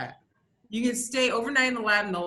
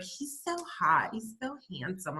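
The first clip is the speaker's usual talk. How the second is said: swooning friends; 7 dB quieter than usual. Retold or imitated. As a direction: gush over the mayor like a fan. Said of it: "I have my friends like".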